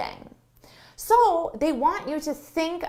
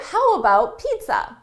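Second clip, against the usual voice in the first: light, upbeat suggestion; suggesting tone; 3 semitones higher, 5 dB louder than usual. Shown as a demonstration. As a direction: offer it cheerfully as an idea. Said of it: "It's a suggestion".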